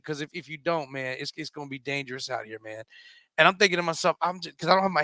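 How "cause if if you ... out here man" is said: low, soft imitated warning; veiled threat. Armed gamer pressing newcomer to join his crew, low quiet threat. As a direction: warn quietly, as the menacing stranger.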